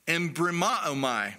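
"Embrimaomai" repeated as one careful word; Greek pronunciation. Shown as a demonstration. Preacher repeating the Greek word "Embrimaomai" for listeners, careful pronunciation. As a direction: say "Embrimaomai" with the weight on "ma". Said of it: "the Greek word is".

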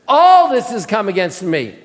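mock self-pity, leaning hard on the first word; mildly hammed-up woe; victim mentality. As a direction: lament it like a put-upon victim. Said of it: "Do you hear the victim mentality?".

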